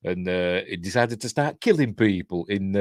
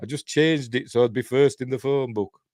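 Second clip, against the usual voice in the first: character voice; 4 semitones higher than usual. Retold or imitated. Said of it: "And he says".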